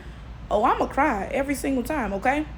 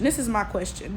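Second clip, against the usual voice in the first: softer, lower repeat; quiet echo; 3 semitones lower, 6 dB quieter than usual. Shown as a demonstration. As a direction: say it again half to yourself.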